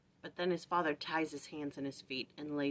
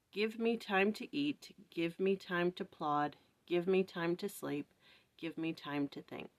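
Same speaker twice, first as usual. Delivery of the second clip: poem reading. Acted. Reads a prayer poem.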